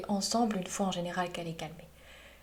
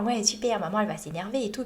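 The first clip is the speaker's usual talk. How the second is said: lightly voiced gleeful little monster; a hint of a mischievous monster cheering; funny little monster; 5 dB louder than usual. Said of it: "rigolote à ce petit monstre". (petit monstre tout content, légèrement joué)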